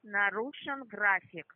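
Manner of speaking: громко, медленно, по слогам; громко и медленно отчеканить; громче и медленнее. Real, not acted. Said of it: "Говорите громче". (громко и медленно)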